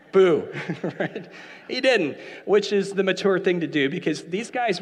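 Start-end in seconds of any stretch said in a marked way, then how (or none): 0.1-1.3 sudden loud, jokey "boo"; playful ghost boo. Pretend. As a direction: spook them as a prank, then laugh. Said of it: "I would have messed with him".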